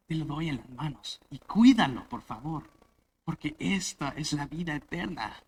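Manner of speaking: tender father. Retold or imitated. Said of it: "tiene que venir al hijo y decir".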